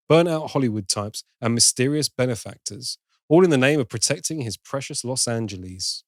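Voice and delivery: scripted entertainment news read, lively and evenly paced; presenter reading a prepared story. Real, not acted. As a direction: read it out like a film news bulletin. Reads out a film news item.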